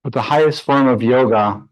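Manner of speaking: measured meditation guidance with long pauses; guided meditation. Real, not acted. Yoga teacher leading students into breath practice, guided meditation voice. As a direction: guide them calmly through the breath, leaving space between phrases.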